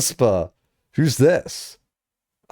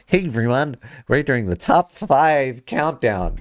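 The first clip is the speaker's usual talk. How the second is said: subtly changed voice. Shown as a demonstration. Streamer testing a slightly altered intro voice. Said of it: "let me see if I can subtly change it voice".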